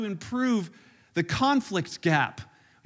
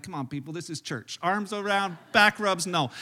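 mock scolding; 4 semitones lower than usual. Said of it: "I'm like".

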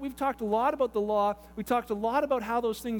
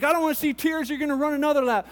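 put-on stern babysitter; 4 semitones higher, 5 dB louder than usual. Babysitter driving kids on.

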